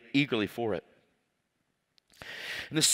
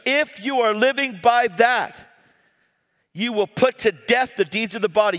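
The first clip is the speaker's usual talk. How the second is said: raised, insistent preacher's delivery; fervent preaching; 6 semitones higher, 3 dB louder than usual. Real, not acted. Preacher urging the congregation to live by the Spirit, fervent. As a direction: preach it with rising conviction.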